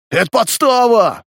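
panicked shout. A narrator's reading. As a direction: yell it like you've been set up. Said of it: "закричал один из панков". (испуганный крик, высоко и громко)

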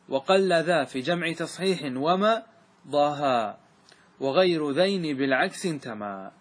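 slow, measured chanting of the verses; verse recitation. Shown as a demonstration. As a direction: recite the poem line by line, slowly. (إنشاد أبيات الألفية ببطء)

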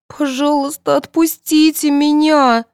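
high, slow, pleading whimper; plaintive moan. Acted. Sonya begging the jury to release her, moaning. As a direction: beg them to let her go. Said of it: "простонала Соня".

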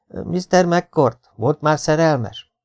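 very slow, drawn-out teasing question; coy question. Acted. A girl asking the teacher about love, slow and teasing. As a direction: stretch it out to tease the teacher.

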